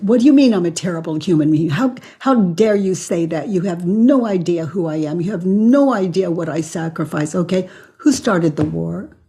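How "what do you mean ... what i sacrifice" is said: fast, indignant come-back; mock defensive outburst. Shown as a demonstration. Defending herself against an insult, fast indignant protest. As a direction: jump in to defend yourself, rapid-fire.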